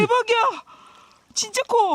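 high, loud excited call; yelling across the room. Real, not acted. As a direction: call it out in amazement. Spots huge fish, calls partner.

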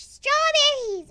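loud, high, stretched-out cheer; excited cry. Real, not acted. Player spotting strawberries in her haul, excited. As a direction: call it out with drawn-out delight. Delighted cry at game items.

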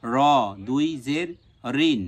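strong rounded র, then firm রিন; emphatic Arabic r on র and রিন; hard r. Shown as a demonstration. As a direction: spell র দুই জের রিন with a heavy r. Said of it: "শক্ত হবে".

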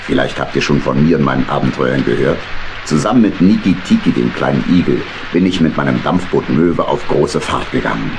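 put-on a kindly old skipper telling of his voyages; old uncle. Narrator introduces himself as Uncle Dominik.

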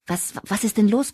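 a touch of breathless alarm; panting, worried question; breathless gasp. A narrator's reading. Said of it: "keuchte Sharon atemlos".

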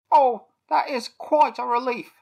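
relieved little sigh of a bird; relieved toucan. A narrator's reading.

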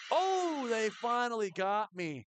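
sudden high, loud yelp of surprise; startled oh; surprised cry. Real, not acted. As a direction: caught off guard, pitch jumping up. Killed in game, exclaims.

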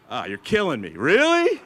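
disbelieving groan rising into a squeaky, loud really; mock disbelief. Told helicopters are coming, he answers in mock disbelief. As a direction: playfully act floored by the news.

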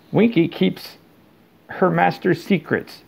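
put-on high, sulky little elf voice, drunk and defiant; a tipsy house elf digging in her heels; mutinous Winky. A narrator's reading.

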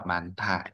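"màn thả" with breath released on "thả"; aspirated th. Shown as a demonstration. Teacher concluding the sound rule, aspirated th. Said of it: "Cho nên chúng ta sẽ đọc".

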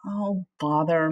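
slow, weary sigh of a word; resigned grumble with a sigh. Acted. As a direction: let it out on a tired breath. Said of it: "said with a sigh".

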